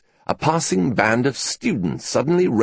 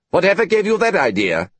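sharp and high, a little louder; 9 semitones higher, 3 dB louder than usual. Acted. Professor sharply rebuking his presumptuous colleague, higher and louder. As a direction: snap it back, offended. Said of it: "he said sharply".

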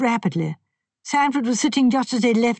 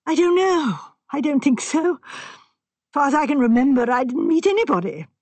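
put-on higher, fretful voice of a nervous young man; distressed young man; 6 semitones higher than usual. A narrator's reading. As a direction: voice him anxious and upset. Sanford voiced in story.

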